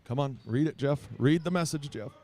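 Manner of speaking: rooting out loud; eager urging. Real, not acted. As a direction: urge him on from afar. Urging distant director to read text.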